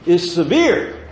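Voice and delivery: severe said slow and weighty; stress on severe. Retold or imitated. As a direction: lean hard on severe, drawing it out. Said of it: "emphasis on severe".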